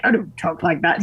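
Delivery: imitated British husband objecting; terrible British accent. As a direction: do a shaky attempt at a British accent. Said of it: "He thinks my British accent's terrible".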